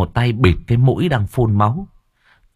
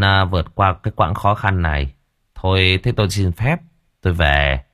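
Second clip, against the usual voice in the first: gentle reassurance; 2 semitones lower than usual. Acted. Master consoling grieving homeowner.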